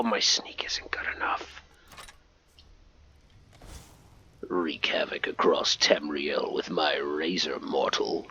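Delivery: low, breath-only whisper; secretive, hushed whisper; stealthy whisper. Pretend. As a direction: whisper like an assassin creeping up. Sneaking up on a target.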